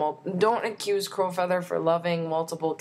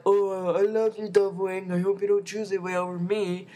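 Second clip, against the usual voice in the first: Tiger Heart. Retold or imitated. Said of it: "Tiger Heart's all like".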